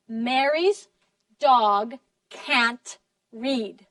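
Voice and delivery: slow, separate beats on "Mary's", "dog", "can't", "read"; every word stressed. Shown as a demonstration. Teacher has class listen for stressed words, every word stressed. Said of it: "What words are stressed".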